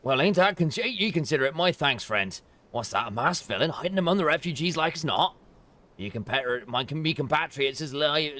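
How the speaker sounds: lightly voiced gossiping refugee; wary refugee.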